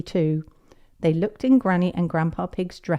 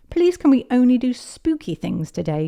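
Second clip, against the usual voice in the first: put-on higher, louder little-girl plea; eager child pleading; 7 semitones higher, 5 dB louder than usual. Peppa voiced, pleading with Granny.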